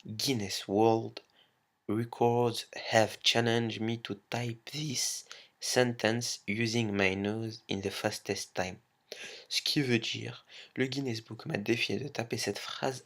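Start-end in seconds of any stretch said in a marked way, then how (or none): 0.1-8.8 slow, careful English in a thick French accent; self-mocking French accent in English, slow and louder; bad French accent. Shown as a demonstration. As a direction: read the English line slowly in clumsy French-accented English. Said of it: "avec mon accent de merde".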